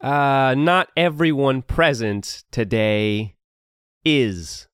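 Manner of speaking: lightly voiced grand duke; ominous regal speech. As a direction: denounce traitors like a smooth ruler. Duke denounces criminals.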